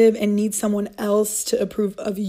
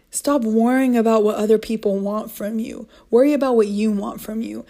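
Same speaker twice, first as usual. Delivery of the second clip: ordinary talk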